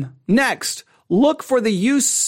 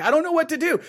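a higher, lightly mocking nervous student; imitating a fretful student, half-teasing; 8 semitones higher, faster than usual. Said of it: "people get all nervous, like".

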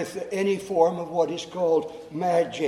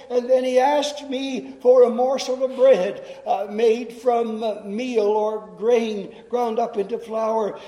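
hammed-up weary widow complaining; exasperated widow; 3 semitones higher, 3 dB louder than usual. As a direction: huff at the man's endless requests. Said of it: "she said".

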